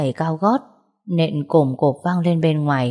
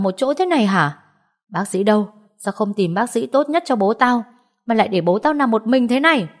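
higher, accusing aunt's tirade; indignant scolding; 4 semitones higher than usual. Acted. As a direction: scold the niece with mock outrage. Aunt berates the niece.

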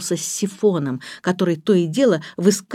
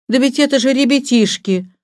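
astonished exclamation; 7 semitones higher, 4 dB louder than usual. A narrator's reading. Forester astonished to find children.

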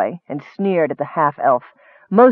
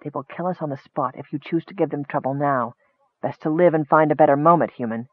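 softer, hushed warning; whispered; 2 semitones lower, 5 dB quieter than usual. Acted. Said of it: "leaned toward Errol and whispered".

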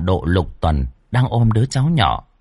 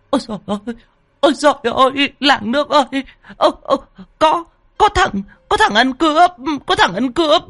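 put-on high, shrieking old woman crying thief; panicked screaming; faster than usual. Old woman screaming for help at the intruder, very high. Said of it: "vội vàng hét toáng lên".

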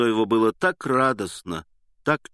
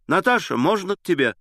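higher, calling out with put-on courage; forced bold call; 9 semitones higher, 4 dB louder than usual. A narrator's reading. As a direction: call through the door, faking boldness. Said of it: "вскрикнул он с какой-то выделанной смелостью".

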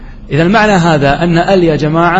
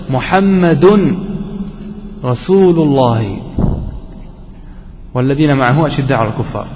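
Quranic recitation; 3 semitones lower than usual. Shown as a demonstration. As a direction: recite the verse with long held vowels. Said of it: "قال الله عز وجل".

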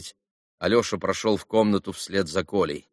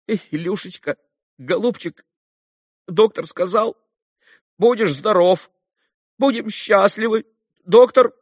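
forced comforting; 11 semitones higher, 5 dB louder than usual. A narrator's reading. Father forces comfort to dying son.

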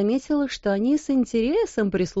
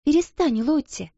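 gentle firmness; 7 semitones higher than usual. A narrator's reading. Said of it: "сказала она".

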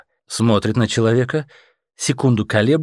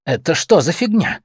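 menacing; 6 semitones higher than usual. A narrator's reading. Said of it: "говорит грозным голосом".

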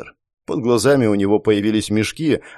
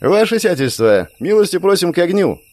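put-on belligerent drunk; 7 semitones higher than usual. Drunk leader invites countess.

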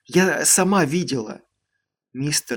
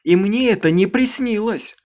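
indignant, louder and higher outcry; indignant shout; 7 semitones higher, 6 dB louder than usual. Acted. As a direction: hurl it back, outraged. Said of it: "возмущённо воскликнула она".

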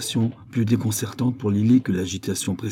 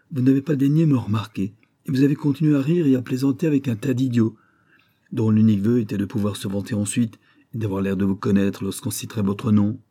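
raised, heated tirade, words tumbling out; breathless diatribe; 2 semitones higher, 4 dB louder than usual. Acted. Gus rails at Lily for ignoring him, heated. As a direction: rant at her until you run out of breath. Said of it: "essoufflé par cette diatribe".

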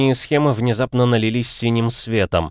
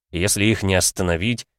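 ordinary delivery

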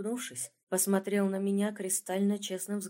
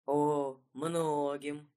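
dreamy, drawn-out and slow; мечтательно протянуто; 5 semitones lower, much slower than usual. A narrator's reading. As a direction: savour the words dreamily. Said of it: "мечтательно протянул мужчина". (мечтательно, нараспев)

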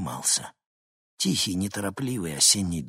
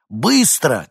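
loud, higher call over the shoulder; shouted command; 6 semitones higher, 9 dB louder than usual. A narrator's reading. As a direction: call out urgently while running off. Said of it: "крикнул он". (крикнуть на бегу)

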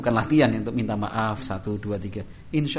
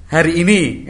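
put-on loud, higher child voice; child's reply; 5 semitones higher, 10 dB louder, slower than usual. Child answering father, loud and higher. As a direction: promise it brightly.

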